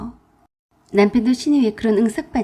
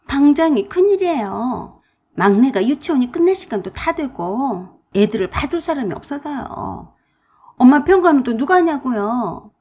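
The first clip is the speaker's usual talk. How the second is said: sister-in-law's voice, a bit higher and complaining; fretful sister-in-law; 3 semitones higher, 4 dB louder than usual. Acted. Sister-in-law complains to narrator, fretful and higher. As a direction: whine that you're stuck.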